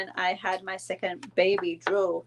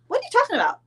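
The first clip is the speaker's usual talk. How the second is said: mom; 4 dB louder, much faster than usual. Retold or imitated. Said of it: "my mom was like".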